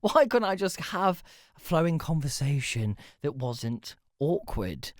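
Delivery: self-reproach. Retold or imitated. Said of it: "I'm like".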